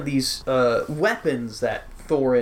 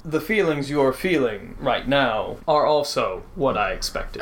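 bear god voice. Acted. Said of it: "The grizzly bear turns to you and says".

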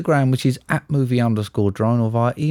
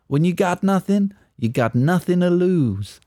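lightly voiced movie character; acted film quote; 5 semitones higher than usual. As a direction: quote the movie line in a mildly put-on voice. Acting out a film quote for quiz.

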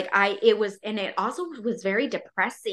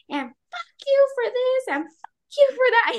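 imitating her own angry rant, pitched way up; mock furious venting. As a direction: spit it at him like a raging journal entry. Venting rage into her journal.

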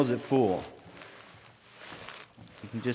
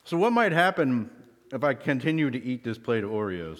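talking through a mouthful of cookie; chewing while talking; mouth full. Real, not acted. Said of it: "excuse me talking with my mouth full".

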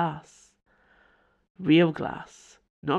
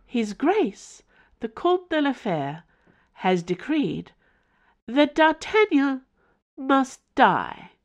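higher, louder, eerily formal machine voice; creepy formal house; 9 semitones higher, 3 dB louder, slower than usual. Acted. The house informing Mother in a creepy formal tone. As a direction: announce it like a cold formal servant.

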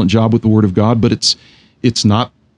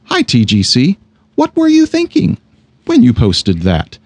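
sing-song pleasant tone. Shown as a demonstration. Host reading his own tweet kindly, sing-song pleasant. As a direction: read the tweet sweetly, like a friendly note. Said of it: "Read it with this tone to yourself".

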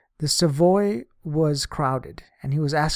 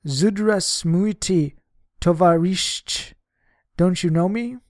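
put-on young girl hailing; 3 semitones higher, 5 dB louder, slower than usual. A narrator's reading. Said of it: "I was hailed by a young voice".

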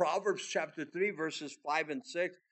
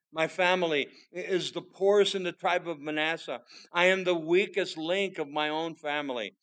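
louder, earnest Gideon pleading his weakness; voicing Gideon; 5 dB louder than usual. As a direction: speak as the humble Gideon, pressing. Voicing Gideon's humble confession.

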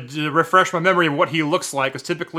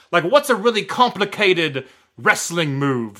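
lightly put-on British accent, casual and chatty; 2 semitones higher than usual. The speaker asking the fan for help with a joke, lightly British-accented. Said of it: "I notice he has an accent".

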